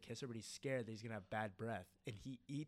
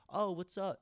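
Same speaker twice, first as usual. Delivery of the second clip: mock cheerful greeting; 8 semitones higher, 8 dB louder than usual. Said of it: "and he's like".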